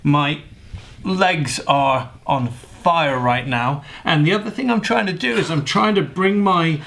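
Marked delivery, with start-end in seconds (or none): 0.0-3.8 straining while holding plank; slow, strained, shaking through the hold. Real, not acted. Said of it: "I'm shaking a little bit".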